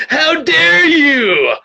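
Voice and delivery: high, slow, loud mock shout; "How dare you!" shouted high and slow, overacted; mock outrage. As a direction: ham up offended indignation. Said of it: "Trainer Bear's like".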